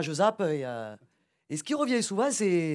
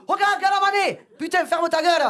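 high mock crowd shout; hammed-up tribal crowd; crowd telling off; 5 semitones higher than usual. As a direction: yell it like the fed-up tribe. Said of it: "tout le monde a dit".

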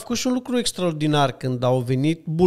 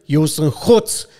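a hint of wounded pride, louder; offended; 6 dB louder than usual. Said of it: "foarte ofensat și zice".

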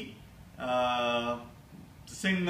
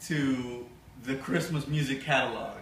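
christmas elf; faster than usual. Acted. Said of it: "I'm talking like an elf".

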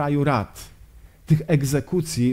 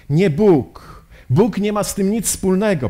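raised, emphatic inner protest; defiant insistence; 5 semitones higher, 4 dB louder than usual. Acted. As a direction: insist on it, pitch lifted. Lenin's acted defiant thought. (stanowczy sprzeciw)

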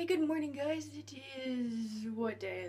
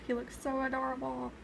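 fangirl squeal; 5 semitones higher than usual. Retold or imitated. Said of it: "I'm like".

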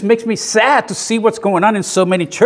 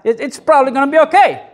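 casual mock suggestion; 6 semitones higher than usual. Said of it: "he didn't say".

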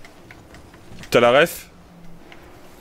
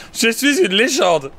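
put-on high, proud kid voice; mock child; 8 semitones higher, faster than usual. Gamer boasting to friends like a small child, higher. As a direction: brag like a little kid quoting his mom.

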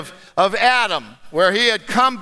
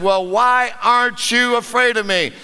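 perturbed. Acted. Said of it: "Now more than a little perturbed".

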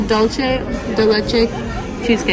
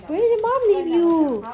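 higher, slower cooing version; high baby talk; 7 semitones higher, 4 dB quieter, slower than usual. Pretend. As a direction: coo the question to the dog in a high baby voice. Repeats line in baby voice.

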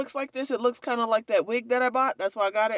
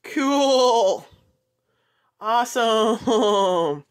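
mock wowed; 5 dB louder, much slower than usual. Real, not acted. Toy glows in dark.

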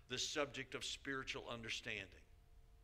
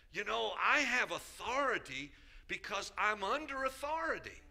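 lightly voiced eager pastor, higher; imitating Haja; 6 semitones higher, 4 dB louder than usual. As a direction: quote him with innocent eagerness. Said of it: "simplified in it".

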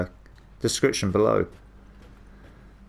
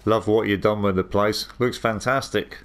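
sarcastic. Real, not acted. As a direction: deliver the compliment sarcastically, stretching the last words. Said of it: "I was being sarcastic".

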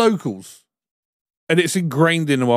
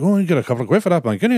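quick, badly faked Irish accent; worst Irish accent; 3 semitones higher, faster than usual. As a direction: imitate a Dublin manager, badly. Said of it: "That is the worst Irish accent".

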